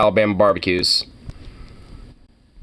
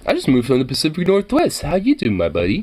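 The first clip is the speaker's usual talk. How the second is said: hammed-up Southern greeting turning low and grumbling; mock Southern local; 4 semitones lower than usual. Playing an Alabama local meeting an Oregon newcomer, hammed-up Southern voice. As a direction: play a local who sours on the newcomer. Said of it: "Just say you recently moved from Oregon".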